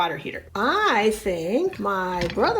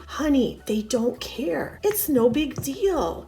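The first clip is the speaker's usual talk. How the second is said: soothing whisper. Acted. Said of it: "this little whisper fight".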